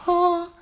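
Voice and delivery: high, airy "ah" of release; imitated sigh of relief. Hunter mimics his sinuses suddenly clearing, relieved sigh. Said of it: "it was just like".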